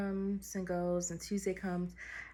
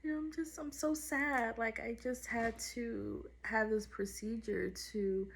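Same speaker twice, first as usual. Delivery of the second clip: high, teary voice breaking over the words; retold tearful plea; 5 semitones higher than usual. Telling the nurse after surgery, high teary voice. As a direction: replay the choked-up sadness, higher and strained. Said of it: "And I was just crying".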